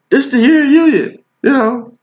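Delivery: high gushing mock voice; mocking excited client. Mimicking a client hyped about her union. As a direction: gush like a starry-eyed client. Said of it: "that's how y'all talk about it".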